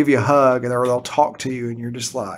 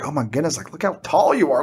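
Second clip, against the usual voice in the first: amazed at how tall. Retold or imitated. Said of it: "we were like".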